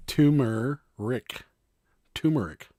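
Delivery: turmeric said slowly as TOO-mer-ick; turmeric sounded out with a "too" start; R dropped. Shown as a demonstration. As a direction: insist on turmeric as "toomeric", no first R. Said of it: "it's pronounced turmeric".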